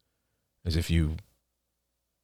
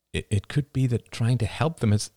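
faltering; 5 semitones higher than usual. Acted. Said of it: "Oliver's voice faltered".

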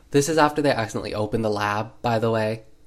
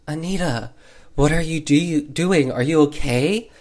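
higher-pitched worried questioning, lightly acted; retold alarm, pitched up and a little louder; concerned calling; 4 semitones higher, 4 dB louder than usual. B checks on Anita acting like a cat, mock concern.

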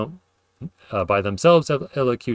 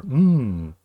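tasty mmm; 3 semitones higher than usual. Shown as a demonstration. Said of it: "like tasty".

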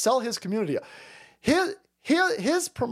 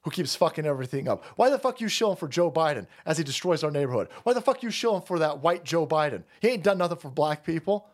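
voicing angry audience. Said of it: "your audience is sitting there going".

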